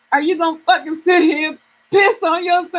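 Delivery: emphatic self-scolding in full voice; scolding herself. Retold or imitated. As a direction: tell yourself off, punching the words. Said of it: "I had to talk to myself".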